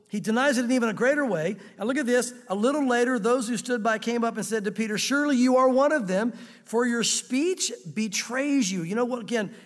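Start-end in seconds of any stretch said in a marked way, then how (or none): 5.0-8.8 accusing bystanders. Acted.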